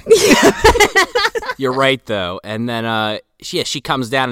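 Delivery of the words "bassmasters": high, loud, slow drawn-out Bassmasters; mock announcer. Echoing the fishing show title as a hammed-up announcer.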